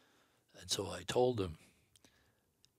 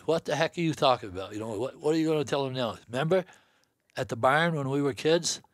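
exasperated; 5 semitones higher, 3 dB louder than usual. Retold or imitated. Father objecting to brother's story.

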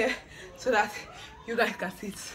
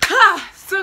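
loud slow opening; 11 semitones higher, 12 dB louder than usual. Acted. Grand opening.

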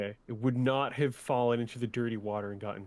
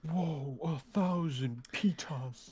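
awed; 5 semitones higher, much slower than usual. Real, not acted. Finding treasure, mock awe.

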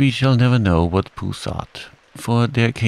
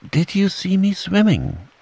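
very high, excited little voice; Roo's excited squeak; 12 semitones higher than usual. A narrator's reading. Roo asking as he is rubbed down, excited squeak. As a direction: squeak it, bursting to be noticed. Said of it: "squeaked Roo excitedly".

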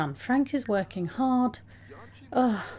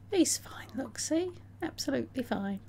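whisper; 3 semitones higher, 5 dB quieter than usual. Real, not acted. Nervous reassurance about fainting sim.

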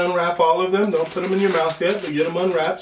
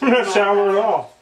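laughing; 4 semitones higher, 3 dB louder, slower than usual. Real, not acted. Laughing while chewing candy.

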